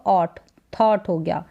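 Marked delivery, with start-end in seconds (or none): 0.7-1.1 थॉट with an aspirated थ; teacher models थॉट; thought demo. Shown as a demonstration. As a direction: say थॉट starting on a breathy थ. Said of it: "टी एच को थ पढ़ा जा रहा है".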